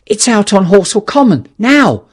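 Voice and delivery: loud, high, urgent news; breathless announcement; excited shout. Acted. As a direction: shout the news across the garden. Ogilvy shouting his news.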